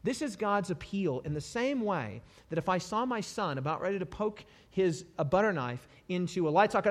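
ordinary delivery

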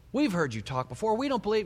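mildly scoffing crowd voice; acted scornful dismissal; dismissive mockery. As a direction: brush him off, rising high at the end. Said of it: "they made fun of him".

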